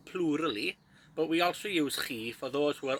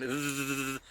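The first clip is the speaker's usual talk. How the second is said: motorbike buzz. Shown as a demonstration. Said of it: "do a sound of a motorbike".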